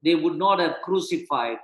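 measured reading of the passage; scripture reading. Acted. Pastor reading Corinthians to the church, measured. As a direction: read the verses out steadily.

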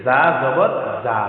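both জা said as a buzzing "za"; জা softened to "za" as a mistake; jim turned za. Shown as a demonstration. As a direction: show the wrong letter, "za jabar za". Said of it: "জা হয়ে গেল।".

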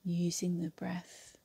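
unhurried yoga nidra guidance with long pauses; guided meditation. Acted. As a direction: guide them through the breath, leaving space between phrases. Leads yoga nidra breathing.

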